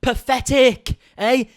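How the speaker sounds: sneering mock flex; imitating Trisha's brag with scorn; mocking impression. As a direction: mimic a snobby boast. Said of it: "the awful flex".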